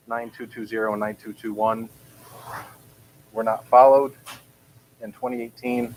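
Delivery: breathless, gasping between phrases; short of air while reading; out of breath. Real, not acted. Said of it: "I'm out of breath from speaking".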